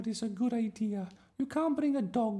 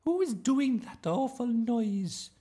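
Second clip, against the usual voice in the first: slow, very high, loud scolding; indignant teacher; 8 dB louder, slower than usual. A narrator's reading. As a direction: demand it in a high-pitched teacher voice.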